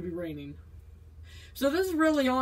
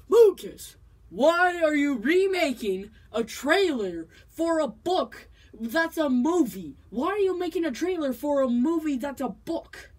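loud, slow, baffled viewer voice; a hammed-up baffled fan asking why; mock incredulous question; 4 semitones higher, 4 dB louder than usual. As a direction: play a puzzled fan calling out.

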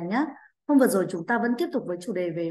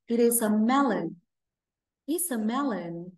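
slow model sentence; slower than usual. Shown as a demonstration. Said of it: "And what is it?".

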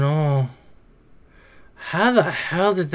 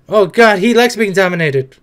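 ordinary talk, nothing marked

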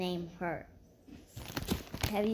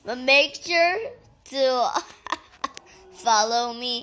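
words broken by real giggles; can't stop laughing while asking viewers to follow; giggling through it; 3 semitones higher, 6 dB louder, slower than usual. Real, not acted. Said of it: "I won't stop laughing".

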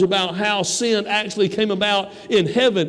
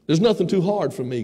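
God speaking; 4 semitones lower than usual. Acted. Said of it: "God says".

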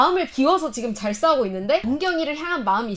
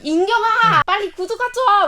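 bossy diva order; 7 semitones higher than usual. Retold or imitated. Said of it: "염정아가".

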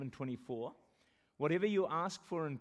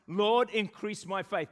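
slow, louder prayer line; slow declaration; 3 semitones higher, 7 dB louder, slower than usual. Shown as a demonstration. Pastor showing the church how to pray it, slow and strong. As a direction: lead the church in it slowly. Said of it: "say together three times".

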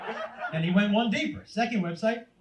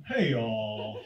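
put-on teen son's voice; 12 semitones lower, 5 dB quieter than usual. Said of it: "you recognize that voice?".

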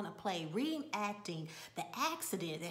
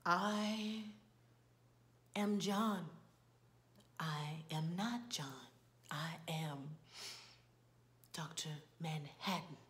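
slow, halting delivery, sinking lower and softer; Doctor Manhattan; 4 semitones lower, 5 dB quieter than usual. Retold or imitated. Blue man brought down nude announces himself, slow intoning. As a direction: intone it with long solemn pauses. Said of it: "and he says".

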